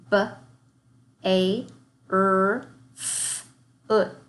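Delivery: "Feeling" split into single sounds, with "ing" as "I" then "ng"; segmented sounds. Shown as a demonstration. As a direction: sound out "Feeling" one sound at a time. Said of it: "start our warm-up by segmenting".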